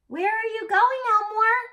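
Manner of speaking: high, loud eager little voice; small person voice. A narrator's reading. Little sibling following Elmore, high and eager. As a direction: chase after him with the question. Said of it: "said the small person".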